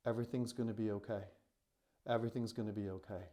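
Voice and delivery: softly voiced, low-key reassurance; hushed comfort, still voiced; imitated soothing whisper. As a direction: reassure gently, as if into someone's ear. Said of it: "I just whispered in her ear".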